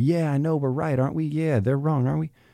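very high, shrill hollering. Mocking people who insist they are right: imitating people yelling. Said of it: "That yelling and going".

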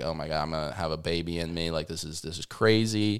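worried, fretful tone. Retelling the partner's reaction to the pregnancy: imitating a worried partner.

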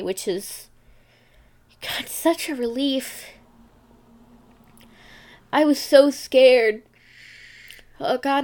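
tearful voice breaking into crying. Recording a podcast monologue and breaking down, crying while talking. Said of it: "now I'm crying".

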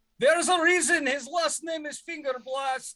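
shouting in a character voice. Voicing Dragomir as he calls out to the group: shouting in character. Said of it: "Dragomir just shouts".

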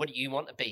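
loud, put-on, dripping sarcasm. Recalling a congregation member's question to him, imitating a very sarcastic tone. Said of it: "In a very sarcastic tone".

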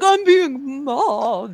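put-on high, swooping whiny voice. Saying how a different person would react to online dunks: mock whining. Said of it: "I would be whining about it".

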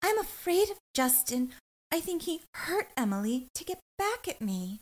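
put-on very high, airy, breathy little-child voice. Imitating a woman who is breathy the whole time, a little childlike. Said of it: "she's just breathy the whole time. She's like".

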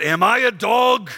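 very slow giant voice, every word drawn out. Reading the story aloud, the Philistine challenges David in a Goliath voice. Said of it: "This is my Goliath voice".

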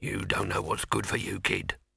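low-pitched voice. Reading a story aloud, a mugger threatening a student in darkness: low voice. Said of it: "a low voice said".

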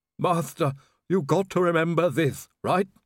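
high, pained groan through the words. A heavily bleeding man speaks to his master, groaning. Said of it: "Igor groaned".

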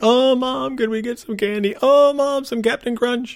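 put-on very high-pitched, whining child's voice. Retelling kids begging a parent for candy in the store aisle: imitating kids whining. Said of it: "the kids are all whining".

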